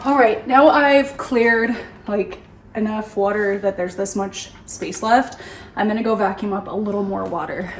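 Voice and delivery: out of breath, panting between words; winded, shallow breaths. Real, not acted. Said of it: "Sorry, I'm so out of breath".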